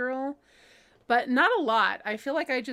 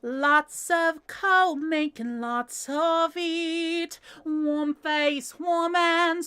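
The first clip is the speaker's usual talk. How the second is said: put-on sung slowly in a Cockney accent, higher; 5 semitones higher, much slower than usual. Singing My Fair Lady in a Cockney accent. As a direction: belt it like a Cockney flower girl. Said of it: "I learned how to do a Cockney accent".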